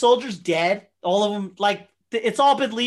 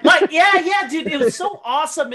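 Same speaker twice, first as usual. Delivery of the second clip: louder and higher, bursting with enthusiasm; excited; 6 semitones higher, 6 dB louder than usual. Real, not acted. Fan gushing to friend about the movie, excited and louder. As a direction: gush like a fan who can't contain it.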